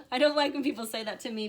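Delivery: laughing loud aside. Real, not acted. Laughing at "embrace the suck.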